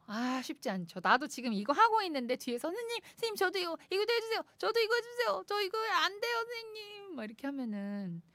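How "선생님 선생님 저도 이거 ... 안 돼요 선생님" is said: put-on high, fast, whiny kid voices turning to whimper; whiny children. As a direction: beg like a pestering child. Host imitates children pestering.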